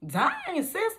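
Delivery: high, stung "dang sis"; mock dismay. Reacting to mom's refusal, high mock dismay. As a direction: pretend to be hurt by the no.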